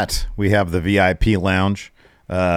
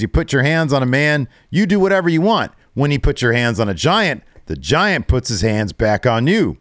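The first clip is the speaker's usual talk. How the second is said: higher, eager hard-sell voice; salesman pitch; 6 semitones higher than usual. Retold or imitated. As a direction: sell it like a hype man. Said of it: "he's really into it".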